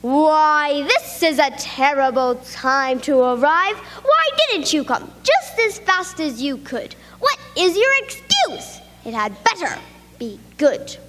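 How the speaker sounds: a hint of a strict schoolteacher, scolding; lightly voiced teacher demanding an excuse; stern teacher. Miss Block scolds late pupil.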